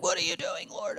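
breathy whispered plea; whispered prayer. Retold or imitated. Pastor retelling his prayer, whispered. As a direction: whisper it up to God.

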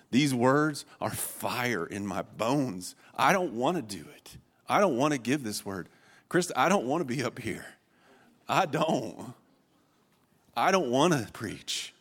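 whiny imitated refusal, each line falling; lamenting. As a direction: plead to be let off. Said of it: "Jeremiah is lamenting to the Lord".

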